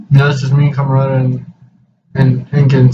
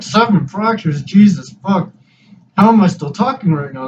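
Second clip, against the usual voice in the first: stunned disbelief; 5 semitones higher than usual. Retold or imitated. Hears jaw has seven fractures.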